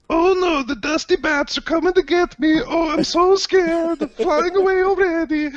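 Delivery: mock-terrified, very high falsetto; bardic comedy act. Bard mocks the flying gargoyles to the crowd, hammed-up squeal. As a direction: play hammed-up fear in a squeaky voice. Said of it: "begin his bardic performance, which is comedy".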